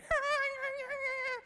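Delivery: very high imitated shriek of the family; mock screaming. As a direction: shriek like they saw the snake. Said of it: "started going".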